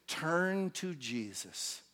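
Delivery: slow, drawn-out appeal; unhurried, softened after the shouting; gentle invitation. Acted. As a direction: stretch the words into a calm invitation. The invitation he says instead.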